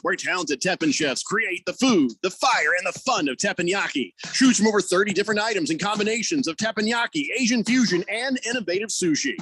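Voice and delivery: radio commercial voice, a little gruff; ad read. Acted. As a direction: read it like a restaurant spot. Reading a radio ad.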